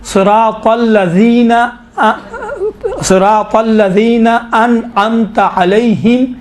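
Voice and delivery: slow, measured tajweed recitation; deliberate teacher's recitation, pausing between phrases; Quran recitation demo. Shown as a demonstration. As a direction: recite slowly and carefully for students to follow. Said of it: "یہ ہم دیکھیں وقف ہے".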